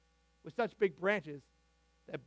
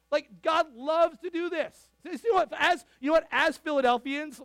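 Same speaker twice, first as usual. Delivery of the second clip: louder and higher, building excitement; rally the congregation; a fired-up preacher's rising call; rousing; 8 semitones higher, 8 dB louder than usual. Real, not acted. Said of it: "rousing climax".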